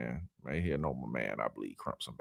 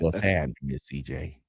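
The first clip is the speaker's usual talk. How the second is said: lower, rasped greeting like a crowing rooster; raspy rooster voice; 10 semitones lower, 5 dB quieter than usual. Retold or imitated. Host imitating a co-host greeting Miss C J, in a raspy rooster voice. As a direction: rasp out the greeting like an old rooster. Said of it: "raspy rooster voice".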